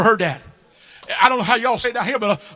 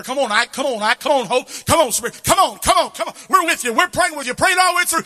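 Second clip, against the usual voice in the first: cheering parent; 6 semitones higher than usual. Retold or imitated. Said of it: "but I'm like".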